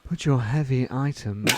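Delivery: sultry checkout machine voice; a hint of a seductive automated announcer; sultry narrator. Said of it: "who's got a sultry voice".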